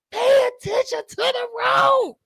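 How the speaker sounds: panicked high-pitched shout at the road; high mock yell. Repeating warning to grandma.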